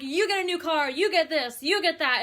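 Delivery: Oprah impression. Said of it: "I feel like we're Oprah".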